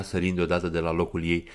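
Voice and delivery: ordinary delivery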